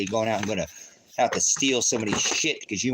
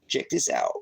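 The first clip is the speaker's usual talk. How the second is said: deep voice; 12 semitones lower, 3 dB quieter than usual. Pretend. Showing viewers a satellite map, in a very deep voice. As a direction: drop the voice way down low. Repeats his own line much lower.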